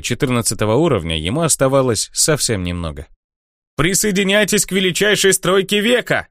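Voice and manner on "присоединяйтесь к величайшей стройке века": high, barker-style call; a herald bellowing recruitment for his clan; hawker's yell. Acted. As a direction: hawk it to the whole square. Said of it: "орал Финиамин".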